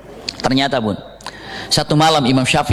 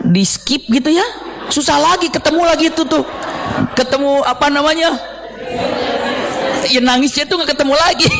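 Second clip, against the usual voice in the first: high, giggling through the words; laughing along; 11 semitones higher than usual. Real, not acted. Preacher to the mothers about the man who lost his tears, laughing. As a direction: laugh at how the crying mood vanished. Mocking the man's lost feeling.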